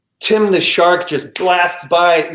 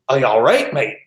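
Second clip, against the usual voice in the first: lower, ridiculous South African attempt; bad South African accent; 5 semitones lower than usual. Captain checking on the frozen passenger, botched South African accent. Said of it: "that sounds ridiculous".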